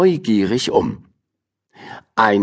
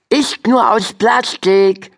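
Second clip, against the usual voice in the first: put-on sputtering boy; 10 semitones higher than usual. A narrator's reading. Silas surfacing to the outraged ladies, high and sputtering. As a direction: cover quickly, gasping boyishly. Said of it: "prustete er den empörten Damen zu".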